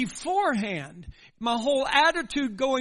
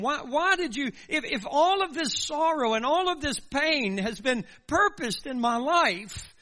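higher, pleading cry of why; anguished lament; 4 semitones higher than usual. Retold or imitated. Job crying out to God why he was born, anguished pleading. Job's lament, voiced by preacher.

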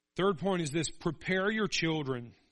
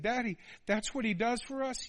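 put-on higher, wondering child question; child's voice; 7 semitones higher than usual. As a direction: ask it like a curious little boy. Son asking his father.

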